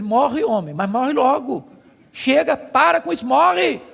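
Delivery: mildly exasperated retold wife, building; wife's harsh dismissal. Wife telling her suffering husband to give up, mock exasperation. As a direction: build from restrained to insistent, imitating a fed-up wife. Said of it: "ela disse assim para ele".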